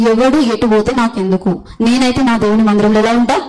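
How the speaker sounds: ఎవడు stressed, the rest slowed; slow resolve. Acted. Preacher giving the church a vow to repeat, slow and firm. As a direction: say ఎవడు ఎటు పోతే నాకెందుకు slowly, as a vow. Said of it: "ఈ విధంగా ఉంటా అని తీర్మానం".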